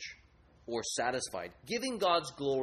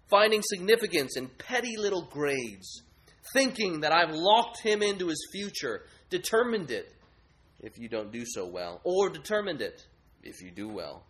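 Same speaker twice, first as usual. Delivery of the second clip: grades idol; 3 semitones higher than usual. Acted. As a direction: keep the lofty sneer. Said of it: "He says".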